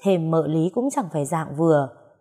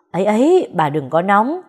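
hasty placating; 2 semitones higher, 5 dB louder than usual. Acted. Husband hurriedly tries to calm his furious wife. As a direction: rush in to calm her down.

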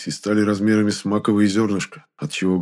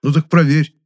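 loud, higher bark; barked order; 7 semitones higher, 7 dB louder than usual. A narrator's reading. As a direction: snap it out like an order. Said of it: "рявкнул я". (громкий резкий рявк)

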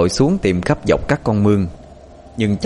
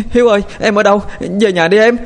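high, loud wailing cry for a lost brother; wailing call; 12 semitones higher, 4 dB louder, faster than usual. A narrator's reading. Sister wails for her missing brother in the rain, loud and high. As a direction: wail his name into the rain. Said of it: "mà gào khóc lên".

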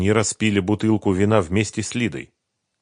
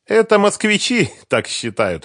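put-on amused young woman laughing mid-line; 14 semitones higher, 5 dB louder than usual. A narrator's reading. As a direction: laugh through the words, high and loud. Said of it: "рассмеялась Света".

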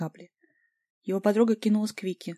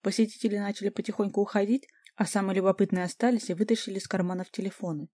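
usual speaking voice

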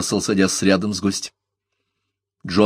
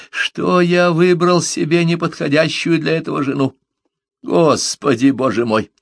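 near fury; 8 semitones higher, 3 dB louder than usual. A narrator's reading. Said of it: "чуть ли не ярость".

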